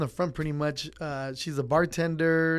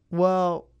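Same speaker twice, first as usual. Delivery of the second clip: eager peace offering; 4 semitones higher, 7 dB louder than usual. Retold or imitated. Offering the upset customer a beer.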